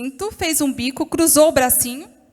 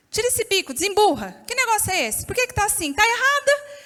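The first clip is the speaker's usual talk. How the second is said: higher, stern telling-off; scolding; 6 semitones higher than usual. Retold or imitated. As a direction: order the sulking child to stop pouting. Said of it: "eu falei assim".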